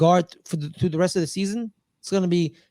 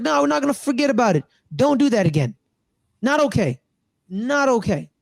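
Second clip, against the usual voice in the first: higher, firm mock scolding; imitated stern refusal; 4 semitones higher than usual. Coach refusing to forget the interception, imitated stern scolding. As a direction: act out a coach putting his foot down. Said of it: "He's like".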